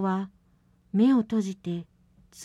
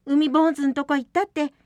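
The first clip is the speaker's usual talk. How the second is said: steady, lightly raised; calm reassurance; 5 semitones higher, 5 dB louder than usual. Acted. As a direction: soothe them, it'll be fine. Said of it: "どうせ誰かが行かなきゃ".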